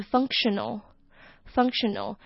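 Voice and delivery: functional said slowly and clearly, syllable by syllable; slow model word. Shown as a demonstration. Teacher repeats functional for learners, slowly. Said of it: "是功能上的或者是机能".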